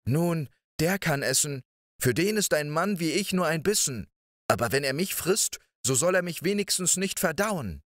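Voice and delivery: put-on high, quick boyish voice; a small clever boy talking his way in; high little-boy voice, bright and pleading; little Däumling. Däumling thinks to himself.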